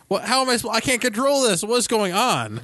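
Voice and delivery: high-pitched exasperated complaint; mock bewilderment. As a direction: act out a flustered player lost at the controls. Acts out his bewildered younger self.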